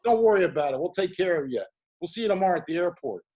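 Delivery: high, loud breezy yeah-yeah; upbeat director. Retold or imitated. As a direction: brush off the worry cheerfully. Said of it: "He goes".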